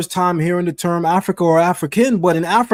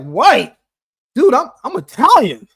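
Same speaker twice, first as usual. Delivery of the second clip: mock indignant Italian; 7 semitones higher, 5 dB louder than usual. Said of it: "I told an Italian dude".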